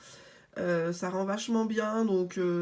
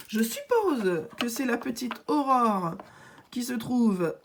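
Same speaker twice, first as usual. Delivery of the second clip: slow, mock-solemn deduction; mock know-it-all; 5 dB louder, slower than usual. Unboxer shows off her great knowledge to viewers, mock-solemn and slow. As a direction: play the grand expert, slowly and gravely. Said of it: "je vais faire preuve d'un grand savoir".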